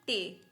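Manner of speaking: German T named टे, with an "ay" vowel; German letter T. Shown as a demonstration. Teacher drilling German T, टे as "teh". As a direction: say टे as "teh", not "tee". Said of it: "को हम बोलेंगे".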